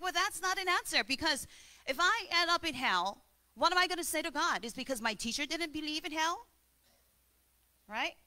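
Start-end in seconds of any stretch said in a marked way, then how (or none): 0.0-6.5 higher, agitated student's protest; student upset with the rabbi, voice raised higher. Retold or imitated. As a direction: push back, upset and pleading. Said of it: "He's upset. He's like".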